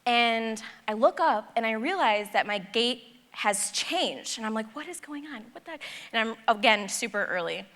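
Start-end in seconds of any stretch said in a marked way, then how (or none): 4.7-5.8 hushed and higher, softer, puzzled under the breath; confused mutter. Retold or imitated. Traveller notices her gate changed, hushed bewildered mutter. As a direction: keep it quiet, baffled, to yourself.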